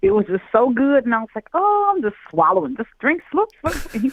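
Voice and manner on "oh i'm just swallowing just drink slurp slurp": giddy slurping. Retold or imitated. Retelling gulping the drink happily.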